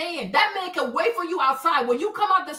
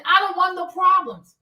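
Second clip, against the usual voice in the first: ordinary talk, nothing marked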